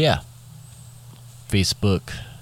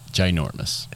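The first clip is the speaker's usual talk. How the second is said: whisper; 2 semitones lower, 3 dB quieter than usual. Pretend. Whispered joke.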